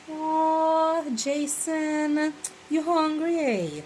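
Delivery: put-on high, lilting question to a child; teasing question. Talking to young Jason about food, lilting high question. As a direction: ask the little one if he's hungry, high and sing-song. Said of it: "you can be like".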